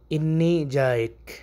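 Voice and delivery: انی جائک said slowly, each sound drawn out; slow Arabic demo. Shown as a demonstration. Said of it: "اس کو آپ عربی میں کیسے بولیں گے". (آہستہ عربی تلفظ)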